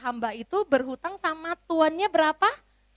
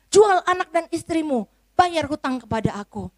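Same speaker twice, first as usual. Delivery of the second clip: higher, louder harsh command; angry master; 4 semitones higher, 4 dB louder than usual. Acted. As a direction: order him sold without mercy. Master orders servant sold.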